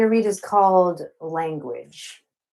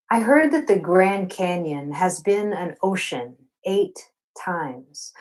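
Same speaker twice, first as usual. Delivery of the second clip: slow, rhythmic poetry reading with weighted repetitions; spoken-word poem; slower than usual. Acted. Queer poet reading her love poem to a Zoom audience. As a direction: linger on the refrains like a love song spoken aloud. Reads poem Canyon Ocean.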